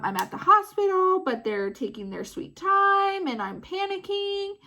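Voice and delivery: mild retold panic held in check; strained calm with pitch lifting; frantic, staying calm. Mom calling poison control, trying to stay calm. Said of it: "frantically trying to remain calm".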